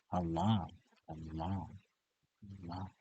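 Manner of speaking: low, hushed repeated name; soft mantra repetition. Shown as a demonstration. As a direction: murmur it gently with pauses. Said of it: "You can repeat".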